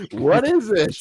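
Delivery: high, loud acted question; mock demanding shout. Host mimics Scott answering the villain, hammed-up shout. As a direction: call back like a cartoon hero.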